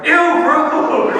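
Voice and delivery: high, loud mock disgust with a laugh. Teen girl rejects a crush with mock disgust. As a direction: squeal it like a grossed-out teen.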